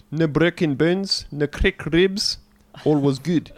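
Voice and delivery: put-on broad South African accent, a touch high. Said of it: "I have been neglecting to do a South African accent".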